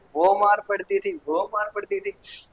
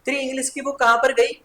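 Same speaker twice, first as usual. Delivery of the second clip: mildly raised mum's demand; a hint of an angry mum asking; scolding mother; 5 semitones higher than usual. Mother checking the bag, mildly raised scolding. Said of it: "बोलती है ना".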